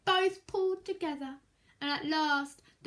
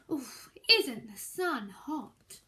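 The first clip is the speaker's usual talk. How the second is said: slow, lower sigh of heat; weary hot snake; 4 semitones lower, slower than usual. Acted. Snake complaining about the afternoon heat, slow and lower. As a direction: drag it out, too hot. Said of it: "the snake asked".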